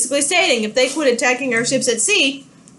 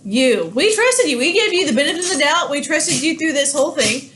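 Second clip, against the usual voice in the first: mock angry Britain. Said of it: "Britain is going to say".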